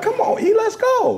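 high, urging pep talk to yourself; self pep talk. Retold or imitated. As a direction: hype yourself up.

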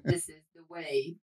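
muffled metallic helmet voice; inside a metal tank. Real, not acted. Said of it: "I sound like a tin can".

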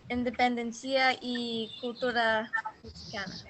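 Spanish with a heavy American accent; careful, halting learner's Spanish. Real, not acted. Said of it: "mi español no es bueno". (español con acento estadounidense)

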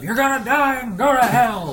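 a hammed-up doomsday yell; mock scream. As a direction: shout it like a street preacher scaring friends. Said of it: "just scream at your friends".

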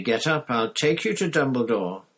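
loud, high, clear command; loudly and clearly. A narrator's reading. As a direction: speak loud and clear to reach him. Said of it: "said Harry loudly and clearly".

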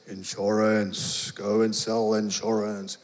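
slow, low and solemn, a hint of a divine voice; lightly voiced inner voice of the Lord, drawn out; God speaking slowly, low and grave; voice of Jesus. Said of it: "Jesus said".

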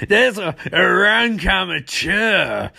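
slow scornful villain shout; hammed-up villain. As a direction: sneer it out slowly like a cartoon villain. Mark Hamill's Trickster scoffing.

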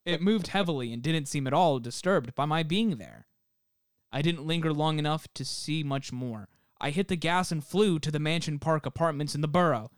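measured reading of an eerie account; deliberate storyteller delivery; story narration. Acted. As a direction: read it like a campfire tale, lightly dramatic. Reads out a listener's account.

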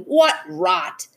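high, indignant mock shout; storybook shout without much extra volume. A narrator's reading. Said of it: "The Wickersham brothers came shouting".

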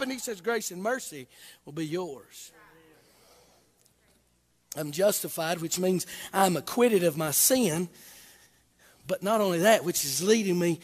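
quiet tender gospel line; hushed preaching. Acted. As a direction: drop it to a near hush. Sudden hush after shouting.

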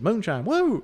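high, loud party whoop; rowdy whoop. Retold or imitated. Crowd guy hollering about moonshine, loud and high. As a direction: yell it like a fan who came to party.

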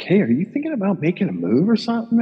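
put-on high voice for a nosy question; mock probing agent. Agent sounding out a caddie on the range, mock probing. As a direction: imitate a fishing agent in a high, swooping voice.

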